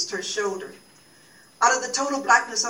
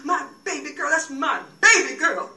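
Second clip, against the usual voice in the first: grieving; 3 semitones higher than usual. Acted. Pilate tells each mourner down the aisle, grieving. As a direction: repeat it as if barely holding together. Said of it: "told each face turned toward her".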